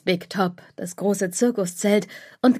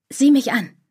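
usual speaking voice

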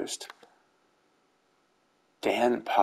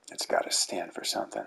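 soft unvoiced whisper to yourself; whispered aside; 6 dB quieter, much faster than usual. Real, not acted. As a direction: breathe it like a private aside. Muttered aside to self.

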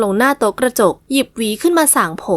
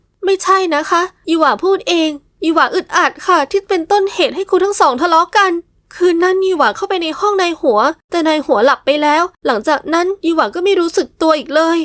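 hurried explaining; 6 semitones higher than usual. Acted. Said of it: "ดวงยีหวาพูดเร็วพยายามอธิบาย".

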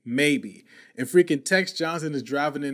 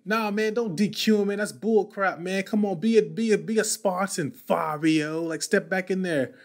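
pumped-up urging; 4 semitones higher than usual. Retold or imitated. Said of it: "I was like".

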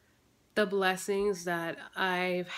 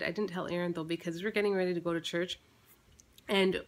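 usual speaking voice

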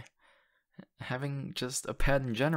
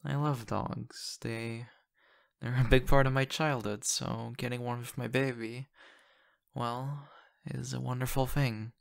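sappy. Acted. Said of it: "I'm being sappy".

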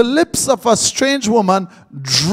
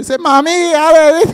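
real voice; 7 semitones higher, 4 dB louder than usual. Retold or imitated. Man switching to his real voice.

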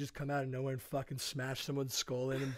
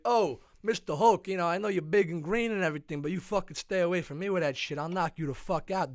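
mock mobster threat; 3 semitones higher, 5 dB louder than usual. Tony threatens Hulk.

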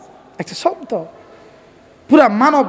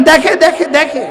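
firm answer; 2 semitones higher, 3 dB louder, slower than usual. Shown as a demonstration. Preacher prompting the crowd to answer, firmly. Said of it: "বলেন".

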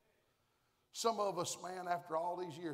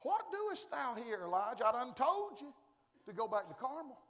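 voice of God; 3 semitones higher than usual. Acted. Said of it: "there came the voice".

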